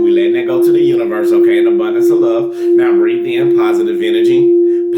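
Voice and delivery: pace the listeners through each breath; guided breathing. Acted. Leads a breathing meditation.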